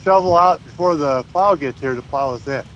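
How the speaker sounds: talking through a mouthful; muffled, mouth full. Real, not acted. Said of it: "It sounds like you got a mouthful of snow".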